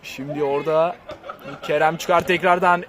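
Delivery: chuckling through the words; laughing. Real, not acted. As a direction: talk while laughing softly. Laugh heard on lines. (gülerek)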